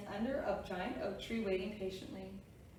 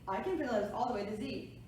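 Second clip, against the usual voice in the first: fast talking. Acted. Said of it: "She talks very fast".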